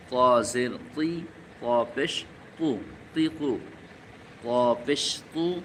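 very slow "ক জবর ক", drawn out and stressed; slow syllable drill. Shown as a demonstration. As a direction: spell it out syllable by syllable for students. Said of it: "জেরের উচ্চারণ".

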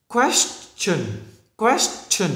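"Question" ending in a crisp "ch", not "sh"; đuôi đọc là chun. Shown as a demonstration. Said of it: "mà phải đọc là chun". ("Question" bật rõ âm "ch" ở đuôi)

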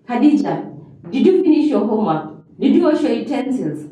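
quick, mildly stern parent questioning; harsh tone. Shown as a demonstration. Parent checking on undone homework and chores, harsh and brisk. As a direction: fire off the questions like a cross parent. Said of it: "is harsh".

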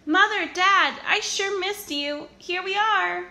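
put-on high, loud little child voice; puppy calling out happily; excited puppy. A narrator's reading. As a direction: call out to mum and dad. Puppies call to parents.

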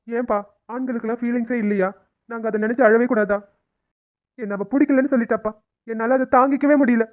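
pleading through tears; tearful. Acted. Son asking his father whether men may cry, tearful. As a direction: protest while crying, voice held up. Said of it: "நீ ஏன் அழற".

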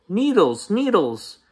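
high-pitched complaining yell; yelling child. Acted. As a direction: cry it out like a hurt kid. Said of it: "yelled Tate".

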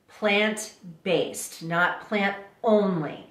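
"based" set apart after a slow "Plant"; emphasis on based. Shown as a demonstration. Speaker clarifying her diet to listeners, emphatic stress on "based". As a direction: lean deliberately on "based", contrasting it with "only". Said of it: "Let me emphasize the word based".

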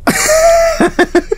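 high squealing laugh of fright; startled shriek-laugh. Real, not acted. Gamer squeals at a sudden scare, laughing. Scared by horror game jump.

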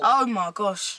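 Cockney dismay; put-on Cockney accent. Shown as a demonstration. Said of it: "we're doing Cockney".

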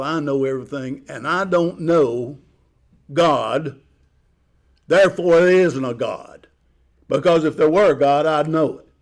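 lightly voiced arrogant Pharaoh, building. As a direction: puff up like a know-it-all tyrant. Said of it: "I see him as an arrogant, uh, individual who says".

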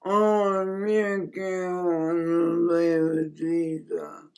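breathless, barely voiced whisper; faint, drained whisper from a trapped dreamer; weak whisper. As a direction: whisper it as if too weak to speak. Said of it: "this is the way it sounded".

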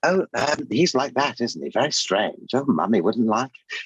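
high, fussy, mannered camp host; prissy aside about what Mummy would think; Richard O'Brien impression. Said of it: "what's Richard O'Brien?".

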